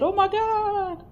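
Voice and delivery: high, drawn-out mock scream of fright; loud, long-held cartoon panic cry; scared. Narrator voicing a scared pumpkin, mock-frightened shriek. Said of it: "That pumpkin is scared".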